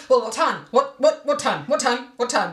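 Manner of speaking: mild gruff impatience, repeated; lightly gruff, a hint of pestering; gruff husband impression. Wife mimicking husband pestering about the time. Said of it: "I'm not gruff like that".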